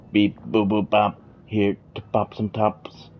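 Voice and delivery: robot voice, beep boop. Pretend. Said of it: "I look like a Russian fucking robot".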